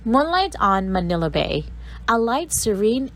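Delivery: measured, lilting recital of verse; poem reading. Acted. Teacher reciting a sonnet to her class, measured and lilting. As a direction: read the sonnet like a performance.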